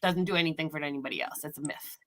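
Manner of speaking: lightly imitated European accent; thick European accent. Doctor dismissing yoga to patient, light European accent. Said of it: "some sort of thick European accent".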